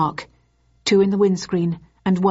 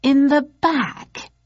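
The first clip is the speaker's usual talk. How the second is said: high, slow, disbelieving; aghast at the detail; drawn-out higher disbelief; incredulous; 8 semitones higher, much slower than usual. A narrator's reading. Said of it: "with an incredulous tone".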